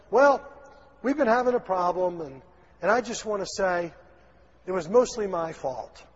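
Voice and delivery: grudging apology; "mostly my fault" said with a dig; a backhanded sorry, hedging the blame; wrong way to apologize. Pretend. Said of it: "Don't say it like that".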